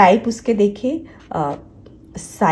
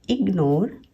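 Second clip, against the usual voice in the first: इग्नोर in two beats, इग and नोर; इग्नोर broken after the G; split after G; slower than usual. Shown as a demonstration. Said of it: "split हो रहा है".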